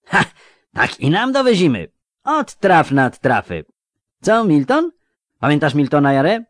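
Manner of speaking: high, loud, delighted youth; young man's voice. Acted. Young robber to his mate and old schoolmate, loud and high.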